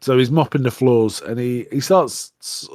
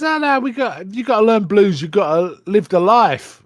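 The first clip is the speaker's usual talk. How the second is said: retold insistence; 7 semitones higher, 3 dB louder than usual. Old bluesman insisting to the boy.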